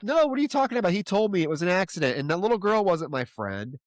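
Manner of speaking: a confused girlfriend's protest, half-played; pushing back, half-acted and bewildered; mock confused protest. Retelling the hot tub fight, a mildly acted confused denial. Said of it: "She's like".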